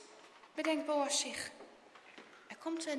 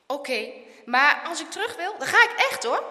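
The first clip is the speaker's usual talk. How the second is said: rising, louder warning to a friend; insistent condition, louder at the end; 2 semitones higher, 7 dB louder than usual. A narrator's reading. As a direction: give in but warn him firmly. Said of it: "waarschuwt Harme".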